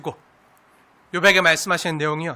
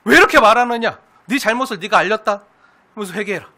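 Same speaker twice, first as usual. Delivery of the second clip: mock stern rebuke; 8 dB louder than usual. Preacher parodying a harsh God scolding Job, mock-stern. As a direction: scold like an offended authority.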